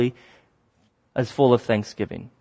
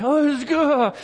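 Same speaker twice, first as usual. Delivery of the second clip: retold runner's outburst; 12 semitones higher than usual. Runner reacting mid-race, retold.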